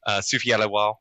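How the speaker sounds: effervescent French woman voice; put-on feminine French accent. Shown as a demonstration. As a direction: play up a bubbly French woman. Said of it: "then get really feminine voice".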